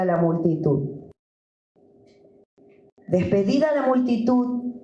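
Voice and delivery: measured, deliberate Bible reading; scripture reading. Acted. Pastor reading the Gospel to his church, measured. Reads Bible passage aloud.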